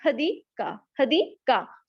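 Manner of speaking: "हदी का" split before the last syllable; irritating broken name. Shown as a demonstration. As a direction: chop it into "हदी" and "का". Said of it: "sounding irritating". (नाम को तोड़कर, हदी... का)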